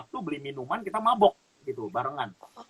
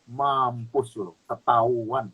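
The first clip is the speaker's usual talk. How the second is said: panicked inner thought; 7 semitones lower, slower than usual. Retold or imitated. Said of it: "Di hati kakak cuma begini".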